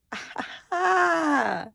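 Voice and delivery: high, drawn-out mock-crying laugh; mock wail. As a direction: wail it out in playful despair, falling at the end. Mock dismay at doing laundry.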